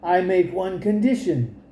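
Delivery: a hint of a witch coaxing sweetly; enchantress. Enchantress bargaining with the frightened man, lightly voiced.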